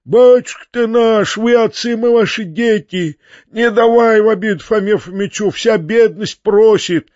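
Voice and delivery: high, drawn-out collective plea; peasants crying out. A narrator's reading. Peasants beg their master for protection, crying out. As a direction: wail it like a crowd begging for protection. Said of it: "закричали ещё раз мужики".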